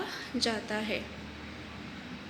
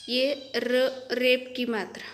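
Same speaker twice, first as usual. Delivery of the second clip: धीरे, ज़ोर देकर; slower than usual. Shown as a demonstration. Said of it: "क्या आती है?".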